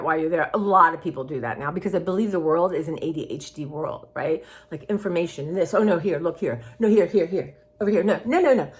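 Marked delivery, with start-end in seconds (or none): 5.5-8.7 mock frantic distraction. Voicing distracting world of information.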